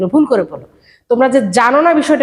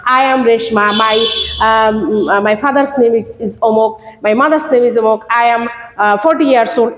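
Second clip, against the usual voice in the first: 1 imitating a schoolchild; 2 semitones lower, much slower than usual. Shown as a demonstration. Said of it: "ওয়ান টু স্টুডেন্টদের মতো না".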